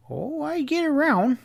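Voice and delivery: high, breezy English voice; a high, airy English dandy; airily. A narrator's reading. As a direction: brush it off lightly. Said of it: "replied Plumford airily".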